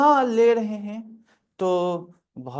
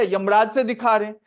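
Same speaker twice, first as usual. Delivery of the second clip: a touch of mock anger, louder and quick; mildly angry; 5 dB louder, faster than usual. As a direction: retort like an irritated patient, lightly acted. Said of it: "अब वो गुस्सा हो गया". (हल्के बनावटी गुस्से में)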